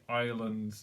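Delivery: lightly Irish "island"; a hint of an Irish accent. Shown as a demonstration. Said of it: "in an Irish voice".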